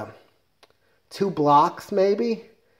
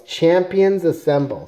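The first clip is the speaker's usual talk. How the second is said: mock heroic yell, higher and louder, drawn out; retold battle cry; 4 semitones higher, 5 dB louder, slower than usual. Comic hero yells for his team to come out, mock rallying shout. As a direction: call the team to arms slowly and loudly. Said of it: "he yells".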